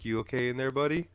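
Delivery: lightly voiced worried friend; concerned Filbo. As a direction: call through the door to check on a buddy. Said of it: "Filbo's like".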